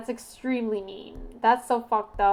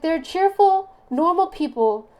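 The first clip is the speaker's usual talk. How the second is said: much higher, loud breezy imitation; mock friend voice; 4 semitones higher, 6 dB louder than usual. Mimicking the friend describing O types, high and loud. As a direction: parrot her cheerful verdict in a high voice. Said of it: "she's like".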